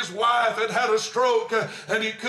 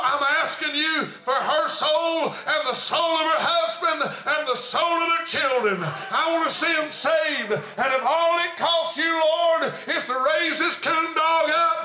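fervent prayer; 4 semitones higher than usual. Acted. Preacher acts out a fervent prayer.

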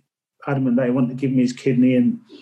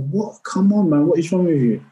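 exasperated pep talk to himself, pitched higher; self-scolding; 4 semitones higher than usual. Retold or imitated. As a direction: push yourself, frustrated that nothing works. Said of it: "I kept saying to myself".

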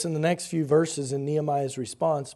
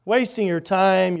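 ridicule; 4 dB louder than usual. Acted. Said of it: "As people ridicule the work".

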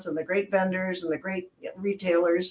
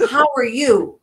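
louder, bright punchline; mock cheery comeback; 3 semitones higher, 7 dB louder than usual. Mother to telemarketer, loud cheery comeback. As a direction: toss the question back at the salesman.

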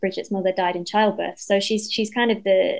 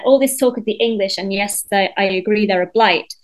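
quoting the line with pointed delivery; 4 dB louder than usual. Retold or imitated. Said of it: "as she said".

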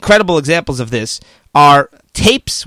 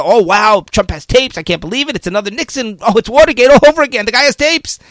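mock media frenzy; 4 semitones higher than usual. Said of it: "the mainstream media and the Senate are".

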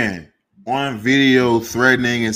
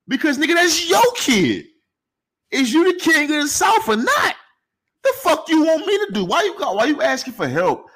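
pitched way up, incredulous and heated; exasperated rant; 13 semitones higher than usual. Real, not acted. Ranting at T.I. about his son, heated and pitched up. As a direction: call him out in disbelief.

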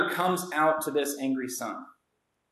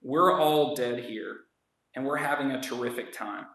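gentle father. Retold or imitated. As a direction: plead with him tenderly. Quoting Capone as the father.

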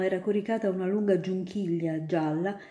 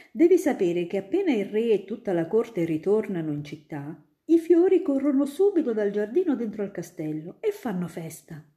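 lightly voiced friendly student, a bit louder; a grown-up spinning tales for a child; student eagerly convincing little Ida; storytelling student; 4 semitones higher, 5 dB louder, faster than usual. Student describes court.

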